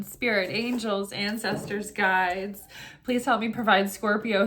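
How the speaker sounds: steady, earnest invocation to the guides; prayer. Acted. Reader praying to spirit guides before the tarot reading, calm prayer. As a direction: pray it calmly, fading toward the amens.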